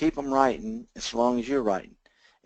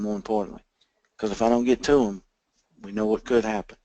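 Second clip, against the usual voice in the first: slowed control voice. Shown as a demonstration. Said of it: "did you hear my voice change".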